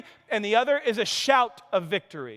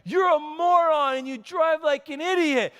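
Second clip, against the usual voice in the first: mock angry gangbanger; 6 semitones higher than usual. Gangbanger jeering at Jed for bad driving, mock angry shout. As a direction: snarl it like a mock street tough. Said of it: "he goes".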